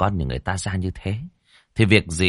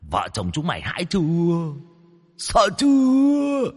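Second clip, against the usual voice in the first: mock the terrified parents cruelly; taunting demon; 2 semitones higher than usual. A narrator's reading. Ghost taunting.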